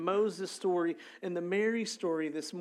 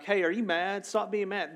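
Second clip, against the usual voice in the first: louder, higher pestering questions; playful, raised-voice needling; mock nagging; 4 semitones higher, 4 dB louder than usual. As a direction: badger them in mock concern. Acting out nagging an angry person.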